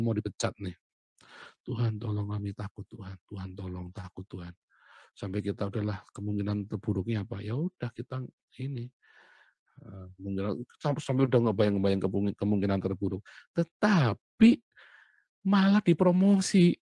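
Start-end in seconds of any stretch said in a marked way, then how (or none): 1.6-4.5 growing softer, a frightened plea fading away; a scared worker praying the night before being fired, fading; fading frightened prayer. Retold or imitated. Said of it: "nangis-nangis". 13.5-16.7 slow, high and louder, full of surprise; telling the church about the surprise promotion, slow and astonished; amazed twist. Acted.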